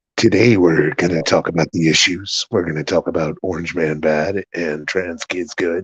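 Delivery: very low, hushed, soft public radio host delivery. Told he sounds like an NPR DJ, the speaker plays it up, NPR DJ voice. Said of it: "You sound more like an N P R D J".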